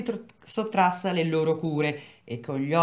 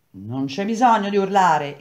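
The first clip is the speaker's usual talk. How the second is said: a gruff, louder reply; husband snapping back at his wife, rude and louder; rudely; 3 semitones higher, 5 dB louder than usual. Acted. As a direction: brush her off rudely. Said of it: "egli le rispose sgarbatamente".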